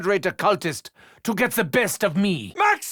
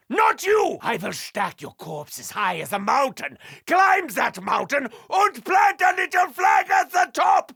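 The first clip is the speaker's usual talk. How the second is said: 1 manic battle rant; 5 semitones higher than usual. Acted. Fighting undead horde.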